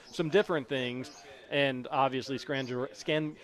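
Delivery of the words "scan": slow, lightly put-on Italian-style accent; surname in a slightly hammed-up accent; put-on name accent. Shown as a demonstration. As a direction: roll out the surname in a mild mock accent. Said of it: "I just do the accent".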